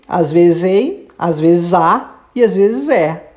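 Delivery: teacher drawing out the vowels slowly; slow, clear. Shown as a demonstration. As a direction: slowly spell out each vowel sound. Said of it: "o A pode ser A". (devagar, destacando cada som)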